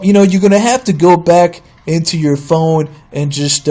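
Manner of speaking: mimicked clerk, starting high and settling down; clerk's voice. Clerk citing school policy to a customer, lightly put-on voice. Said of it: "doing the voice".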